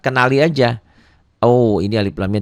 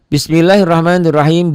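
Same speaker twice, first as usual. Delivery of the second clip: higher, louder recited Arabic line; recitation model; 8 semitones higher, 5 dB louder than usual. Shown as a demonstration. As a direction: recite the verse clearly for the class. Teacher models the Quranic recitation.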